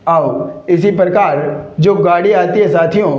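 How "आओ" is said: "आओ" as "ov", ending in a V sound. Shown as a demonstration. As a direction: say "आओ" for "of", with V instead of F. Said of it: "क्या बोलते हैं".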